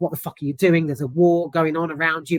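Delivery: ordinary delivery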